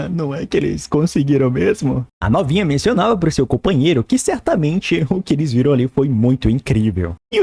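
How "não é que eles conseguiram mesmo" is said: chuckling, half-amazed guard voice; laughing disbelief. Acted. Guards surprised their shots killed the beast, laughing. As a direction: laugh it out like you can't believe it worked.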